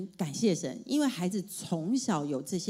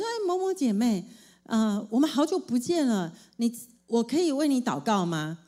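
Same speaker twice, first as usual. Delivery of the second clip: bright greeting; 4 semitones higher than usual. Retold or imitated. Greeting a church sister.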